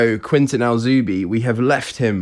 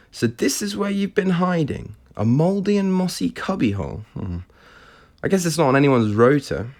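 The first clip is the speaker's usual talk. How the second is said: Tiffany voice; 5 semitones higher than usual. Acted. Tiffany's scornful line.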